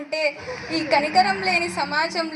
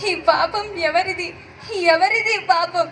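put-on anguished lament calling the fading child; despairing wail. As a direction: cry out to God in helpless grief. Pushed away, baby fading. (నిస్సహాయంగా దేవునికి మొరపెట్టుకునే విలాపం)

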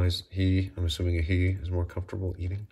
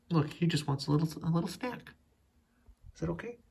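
pet talk; 8 semitones higher than usual. Real, not acted. Owner asks the cat if a snack is okay, high coo. Asking cat's permission sweetly.

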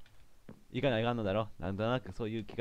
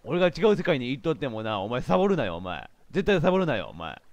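stern shout; 5 dB louder than usual. Acted. Scolding worker character.

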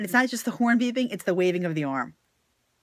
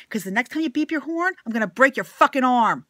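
angry threat; 4 semitones higher, 5 dB louder than usual. Real, not acted. Threatening the horn-beeping driver.

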